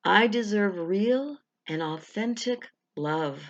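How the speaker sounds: slow, deliberate affirmation. Shown as a demonstration. Coach leading the first of three affirmations, slow. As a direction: let each word land slowly. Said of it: "And a third time".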